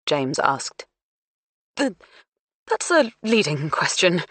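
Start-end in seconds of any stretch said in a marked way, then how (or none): 1.8-4.2 nervous stammer; stuttering. Acted. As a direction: trip over the first word. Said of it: "Duncan stuttered".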